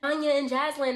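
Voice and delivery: imitating her high-pitched accusation; retold rant, pitch held up; agitated insistence. Woman insisting they think she abandoned them, agitated. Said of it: "She was like".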